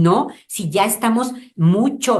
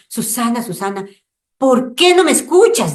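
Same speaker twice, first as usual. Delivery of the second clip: the Lord calling out; 6 semitones higher, 5 dB louder than usual. Acted. The Lord's voice calling Susana.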